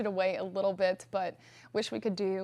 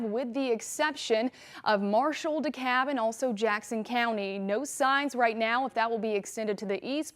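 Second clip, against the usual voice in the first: cave echo. Real, not acted. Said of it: "You sound like you're in a cave or something".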